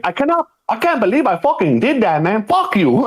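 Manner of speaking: high, whiny mock outrage; mock upset woman. Imitating Amanda cursing him out after sex, high and whiny. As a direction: squeal it like a betrayed lover.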